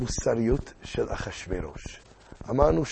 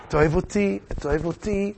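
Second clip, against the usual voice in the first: pleading queen; 4 semitones higher than usual. Acted.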